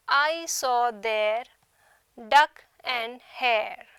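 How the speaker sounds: "I saw their / duck and hare" slowly in two groups of three; slow separated beats on "I saw their duck and hare", pause midway; anapestic scansion. Shown as a demonstration. Teacher illustrating anapest meter, slow three-syllable feet. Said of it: "The first two are unstressed and the third syllable is stressed".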